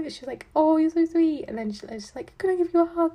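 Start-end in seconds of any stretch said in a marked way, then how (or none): 0.6-1.5 high, loud sugary gush; gushing neighbour. Retold or imitated. 2.4-3.1 high, loud eager ask; eager neighbour. Retold or imitated. Imitates the neighbour asking for a hug.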